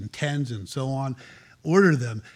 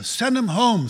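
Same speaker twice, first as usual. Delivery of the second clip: higher, brushing-off apostle voice; lightly hammed apostle; mock dismissive apostle; 8 semitones higher, 3 dB louder, slower than usual. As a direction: wave them off like an impatient disciple. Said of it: "some of the great apostles said".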